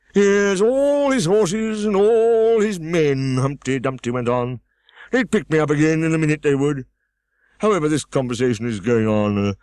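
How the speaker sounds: Humpty Dumpty scolding. A narrator's reading. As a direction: snap at the girl from the wall.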